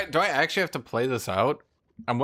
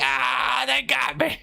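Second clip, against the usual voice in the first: mock dying cry; 9 semitones higher, slower than usual. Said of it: "He's like".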